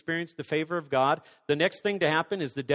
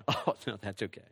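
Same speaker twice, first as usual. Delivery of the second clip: low, soft, bashful decline; acted guest's quiet demurral; polite refusal; 10 semitones lower, 7 dB quieter than usual. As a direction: turn down the offer meekly.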